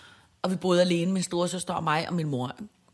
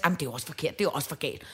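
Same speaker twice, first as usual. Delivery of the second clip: flustered mom; 5 semitones lower, 6 dB quieter, much faster than usual. Retold or imitated. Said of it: "min mor helt stress".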